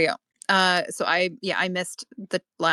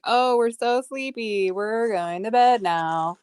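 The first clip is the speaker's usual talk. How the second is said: mock sleepy voice; 3 semitones higher, slower than usual. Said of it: "as if we're like".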